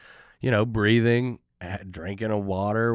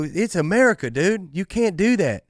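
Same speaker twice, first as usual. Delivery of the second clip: higher, louder imitated bro outrage; mock drunk protest; 8 semitones higher, 3 dB louder than usual. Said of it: "you go".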